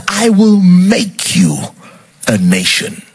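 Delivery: stretched-out, emphatic divine pledge; God's solemn promise. Acted. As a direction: proclaim it slowly, as a weighty promise. God's promise quoted in preaching.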